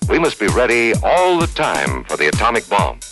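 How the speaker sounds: normal talking voice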